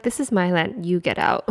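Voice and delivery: a hammed-up local yelling get out; mock territorial shout. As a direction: bark it like you own the place. Mocking locals' attitude.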